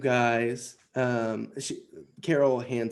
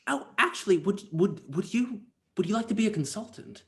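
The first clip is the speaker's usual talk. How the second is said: high, quick eager offer; eager excitement; 8 semitones higher than usual. Acted. Carol to the player, eagerly offering a job. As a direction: jump at the idea, pitch way up.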